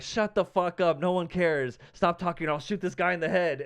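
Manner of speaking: imitating a comic scolding a heckler; mock angry rant. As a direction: act out an exasperated comic's threat. Acts comic silencing a talkative heckler.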